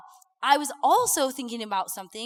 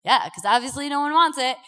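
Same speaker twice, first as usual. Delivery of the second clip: frustrated; 4 dB louder than usual. Retold or imitated. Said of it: "talking like this 'cause that's how I get when I get so mad".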